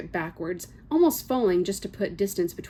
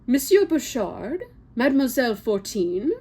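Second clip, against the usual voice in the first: sharp teacher's call; 5 semitones higher, 4 dB louder than usual. Acted. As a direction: call out their names like a stern schoolmistress. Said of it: "Madame Morel's voice cuts into the air, as sharp as a pen".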